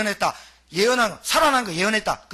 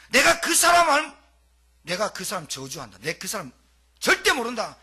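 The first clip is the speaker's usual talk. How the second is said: cursing denial. Retold or imitated. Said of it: "저주하고 원망하고".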